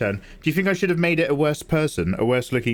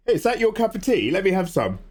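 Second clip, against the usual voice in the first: higher-pitched cheeky request; gas man; 7 semitones higher than usual. Acted. Gas man asking householder for tea, put-on voice. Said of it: "British gas man came round and he was like".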